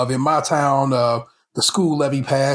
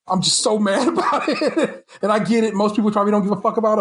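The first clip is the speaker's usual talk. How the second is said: laughing while mad; 6 semitones higher than usual. Real, not acted.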